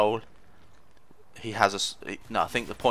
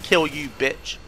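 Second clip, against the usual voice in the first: high triumphant jeer; cheeky victory taunt; gleeful taunt; 7 semitones higher, slower than usual. Real, not acted. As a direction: crow over the kill. Stabbing an enemy in game.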